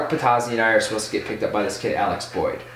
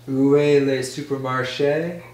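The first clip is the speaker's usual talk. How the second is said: mock smooth French question, a little higher; trying to be suave; 4 semitones higher than usual. Seb asking the girl a second time, mock suave. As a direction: imitate a would-be charmer asking in French. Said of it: "trying to be suave".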